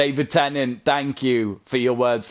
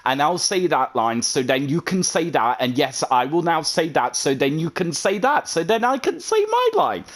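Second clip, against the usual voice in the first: mock actor voice climbing higher; 6 semitones higher, faster than usual. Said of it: "and he's going".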